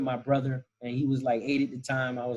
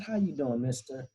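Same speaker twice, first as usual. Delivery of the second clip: softer grandma answering back; grandma replying; 5 dB quieter than usual. Retold or imitated. Grandmother answers the manager, quiet and sweet. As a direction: return the greeting sweetly and quietly. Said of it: "She said".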